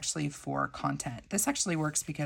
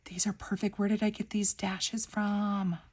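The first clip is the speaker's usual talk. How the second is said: excited planning; 4 semitones higher than usual. Real, not acted. Gasp at finding the stickers.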